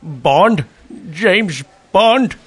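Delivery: Bond? James Bond? with questioning rises; unsure copy. Shown as a demonstration. Connery nervously copying the director, questioning rises. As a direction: timidly echo the line. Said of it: "Say it like me!".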